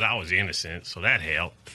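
put-on understated Virginia accent; Keith Allen Harward's Virginia accent. Exoneree explaining how he coped, light Virginia accent. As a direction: lightly imitate a Virginia man. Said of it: "I can do his accent pretty well".

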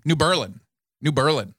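New Berlin said new BUR-lin; local pronunciation. Shown as a demonstration. Confirming the Wisconsin town's name, BUR-lin. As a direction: Berlin stressed up front, second syllable weak. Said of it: "they don't do it right".

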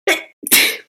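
sneezing. Acted. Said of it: "I just sneezed over".

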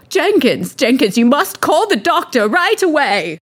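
high-pitched panicked summons; alarmed mistress. Acted. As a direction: call urgently for the servant, melodramatically. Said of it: "And she says".

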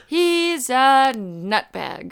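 slow, stiff Brad Pitt line; bad acting. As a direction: drag the line out, flat acting. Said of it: "delivered it like that too".

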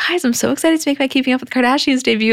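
imitating a bubbly star's announcement; mock excited. Ariana quoted announcing her debut.

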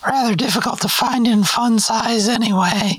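put-on chirpy drive-thru kid behind the counter; fast food cashier voice. McDonald's cashier roleplay.

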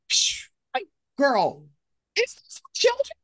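high, disbelieving squeal at the screen; incredulous outrage. Retold or imitated. Viewer yelling at Bambi's mother on screen, high disbelief.

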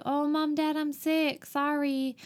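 high, mock-pitiful fake sick voice; mock sick daughter. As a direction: play sick for mom and dad. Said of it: "she's like".

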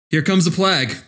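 put-on Boston accent on plague; broad Boston vowels. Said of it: "there comes Max's Boston accent".

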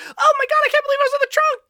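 high, excited cartoon squeal; cartoon sidekick voice. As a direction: mimic a hyper anime dub kid. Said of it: "you said they talk like that".

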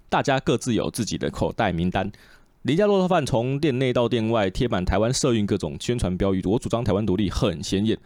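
casual podcast read of a printed report; newspaper article read. Real, not acted. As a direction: read a news article aloud in even phrases. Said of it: "读一下报纸吧".

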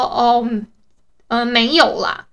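a mild, patient brush-off; gentle reply. Retold or imitated. Daughter shows dad how she answers him gently. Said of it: "就比较温和一点".

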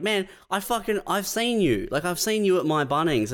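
high, eager mock shout-out; half-mocking starstruck customer; excited recognition. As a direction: blurt it like spotting a celebrity. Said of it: "you're like".

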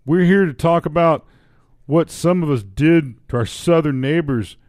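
put-on Canadian accent. Reading a Canadian's column aloud, in Canadian accent. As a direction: read it as a comic Canadian. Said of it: "give up the accent".

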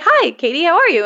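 high sweet mock greeting; lightly chirpy phone hello; imitating Gabby.

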